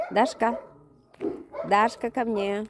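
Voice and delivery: loud call across the yard; calling a dog. Real, not acted. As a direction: call the dog back firmly.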